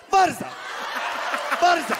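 high, punchy exclamation; hammed-up cry at the intruder; acted outburst. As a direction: blurt it out high and sudden.

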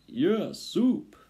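high, loud eager cry; squealed rat agreement; agreeing rats. A narrator's reading. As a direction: chime in with greedy excitement. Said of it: "the others agreed".

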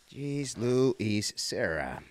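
"Jeez Louise Serra" stretched out slowly, every syllable drawn long. Shown as a demonstration.

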